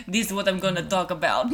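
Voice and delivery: put-on Hungarian accent. Shown as a demonstration. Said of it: "I just decided that it was like".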